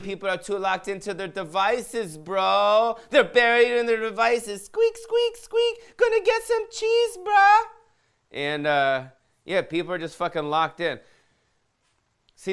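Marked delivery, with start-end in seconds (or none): 0.0-7.5 high, loud squeaky mouse voice; Topo Gigio. Acted. Comic puts a question to the mouse puppet and answers for it, squeaky mouse. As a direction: squeak it out, leaping up to a tiny shrill pitch. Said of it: "What do you think of Topo Gigio?".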